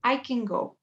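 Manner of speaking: "I" stressed, "can" short and unstressed. Shown as a demonstration. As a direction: start on "I", reduce "can". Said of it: "es como empiezo en el I". (énfasis en «I», «can» átono)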